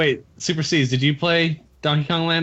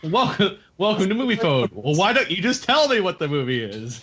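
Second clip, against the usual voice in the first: Moviefone announcer; 4 semitones higher than usual. Pretend. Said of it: "I was doing the movie phone".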